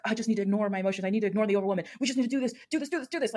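imitating someone forcing themselves through; mock forceful self-talk. Coach imitating a client pushing past overwhelm, mock forceful. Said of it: "will do like forcefully".

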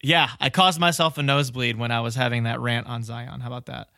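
slightly nasal, as if pinching the nose. Real, not acted. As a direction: talk through a blocked nose. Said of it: "sound nasally at all in the last".

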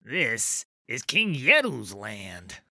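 slow, breathless troll warning; gasped. Acted. Dropped troll wheezing at Trundle, gasping. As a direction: push the words out short of air. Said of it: "gasped the troll".

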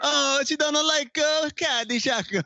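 high, slow whiny mockery. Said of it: "I do not sound like an Italian mouse".

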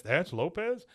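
high rising surprise; mild mock confusion; Hank puzzled. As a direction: question it in disbelief. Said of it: "Hank says".

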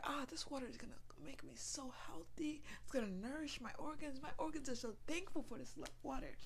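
inner thanks. Pretend. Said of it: "put the intention ... into the water".

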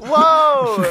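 high, loud drawn-out whoa; a stunned surfer-dude whoa; loud amazed Owen Wilson whoa; Owen Wilson impression. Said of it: "that sounded just like Owen Wilson".

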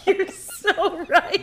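very slow, high laughing reply. Real, not acted. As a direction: agree through laughter. Laughing agreement.

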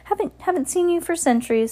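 high-pitched, friendly devil's welcome; Satan greeting. A narrator's reading. Satan greets Winifred after centuries, high-pitched welcome. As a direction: greet a long-lost guest, pitched high.

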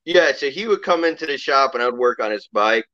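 talking through hiccups; hiccuping between words. Real, not acted. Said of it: "Excuse me, I'm hiccuping".

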